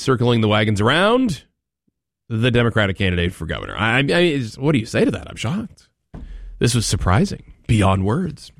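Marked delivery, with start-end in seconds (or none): 3.8-7.5 sarcastic, high and overdone; sarcastic, mock shock. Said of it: "My sarcasm is deep". 7.7-8.5 sarcastic, flat and dry; deadpan sarcastic. Acted. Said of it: "My sarcasm is deep".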